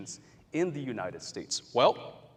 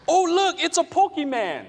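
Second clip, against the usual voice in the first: much higher and louder playful call; mock shout; 8 dB louder than usual. Teacher playing a player spotting a Charizard, loud playful shout. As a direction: call out to the park like a clueless player. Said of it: "one person over here shouts".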